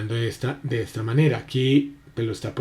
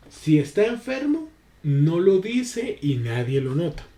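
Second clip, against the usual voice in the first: "si" jumps much higher, slow questioning tune; doubtful conditional, high start; raised doubtful tone; 4 semitones higher than usual. Shown as a demonstration. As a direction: sound unsure, pitch leaping up on "si". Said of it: "cómo estoy utilizando diferente la acentuación".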